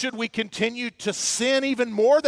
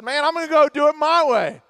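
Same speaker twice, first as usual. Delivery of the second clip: brash defiance; 3 semitones higher, 3 dB louder, much faster than usual. Retold or imitated. Prodigal son defying his father.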